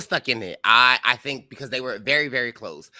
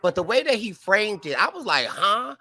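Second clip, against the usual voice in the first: baffled; 8 semitones higher than usual. Real, not acted. Baffled reaction to Vinny.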